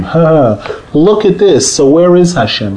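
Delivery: mocking taunt. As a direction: sneer it out like a scoffer. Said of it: "when Goyim mock the Jews".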